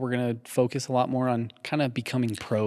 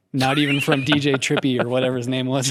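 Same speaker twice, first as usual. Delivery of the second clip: louder, rising gleeful boast; excited brag; 3 semitones higher, 4 dB louder than usual. Real, not acted. Cohost bragging to listeners about five stars, gleeful. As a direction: crow about the perfect reviews.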